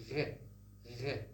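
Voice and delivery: RE with a French uvular R. Shown as a demonstration. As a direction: scrape RE at the back of the throat. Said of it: "The French people say".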